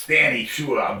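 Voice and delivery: put-on loud New Jersey accent. Retelling how a friend always greets him, imitating a singer's New Jersey accent. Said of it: "with his New Jersey accent".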